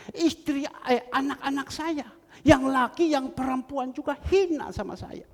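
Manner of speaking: high, heated imitation of a wife's complaint; retold plea of someone humiliated, rising in force; aggrieved lament. Voices a humiliated wife pouring out grievance.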